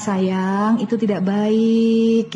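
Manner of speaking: soft doting tone. Shown as a demonstration. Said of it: "Dengan kalimat".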